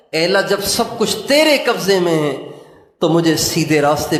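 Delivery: earnest, coaxing appeal that lifts on the key words; pleading prayer. Acted. Preacher pleading with Allah in Urdu, pleading prayer. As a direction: plead with Allah like a child insisting.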